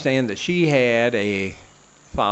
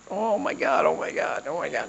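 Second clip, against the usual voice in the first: panicked oh my God; 6 semitones higher, 5 dB quieter than usual. Retold or imitated. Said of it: "hunched over, like".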